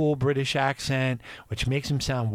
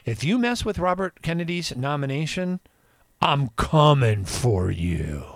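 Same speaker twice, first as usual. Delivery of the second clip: imitating Trump; 2 semitones higher than usual. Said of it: "Donald Trump came out and said".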